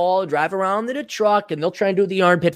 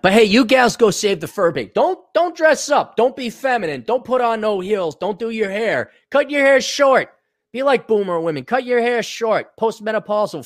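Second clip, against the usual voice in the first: sarcastic rant; 5 semitones higher than usual. Real, not acted.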